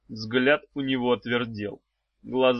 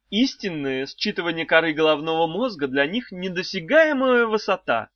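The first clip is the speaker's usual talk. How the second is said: high, sing-song wife voice; a high cooing old wife; wife's high voice; 7 semitones higher, 4 dB louder than usual. A narrator's reading. Wife teasing the trapped children, high and cooing.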